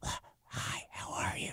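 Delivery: slow, hoarse whisper, barely voiced, very slow. Showing how the race left the voice: hoarse whisper. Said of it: "That's the way I'm talking".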